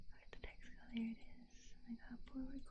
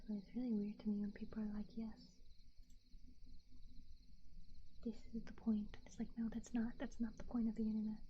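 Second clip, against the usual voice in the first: whispering; faster than usual. Real, not acted. Whispers through the stream.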